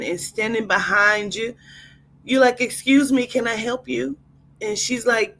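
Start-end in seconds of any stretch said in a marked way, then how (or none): 2.6-4.2 annoyed attitude. Acted. Annoyed guest.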